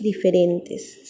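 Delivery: slowly stretched diferentes; drawn out. Shown as a demonstration. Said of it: "es la separación de dos vocales". (alargando despacio "diferentes")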